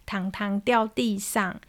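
放慢的小孩口吻, 轻声说糖糖脏脏; 像三岁小孩那样慢慢说; child voice. Retold or imitated. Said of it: "他说". (小男孩委屈地慢慢说)

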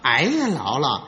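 smoothing things over. Acted. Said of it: "打算借这个机会给他打个圆场".

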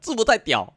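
lisping "制服太屌", high and loud; 大舌头. Retold or imitated. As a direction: say "太屌" with a lisp. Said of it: "他说". (大舌头地说"制服太屌")

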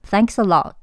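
Thanks a lot with the T of lot held in the throat; unreleased final T. Shown as a demonstration. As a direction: stop lot at the throat, no T released. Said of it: "lot的T没有发出来，而是在喉咙打住". (lot的T不发音，在喉咙打住)

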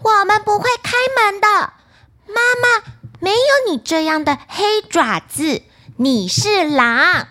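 put-on high, loud children's voices; little goats crying out together. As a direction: shout back at the wolf, refusing to open. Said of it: "便一起叫道".

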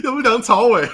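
bursting into laughter; laughing. Real, not acted. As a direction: say it through a big laugh. Laughing punchline.

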